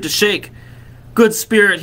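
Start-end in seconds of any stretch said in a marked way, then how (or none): 1.1-1.8 high, imploring address; pleading Scrooge. A narrator's reading. Scrooge on the ground pleads, imploring. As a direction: implore the spirit, voice raised. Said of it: "he pursued".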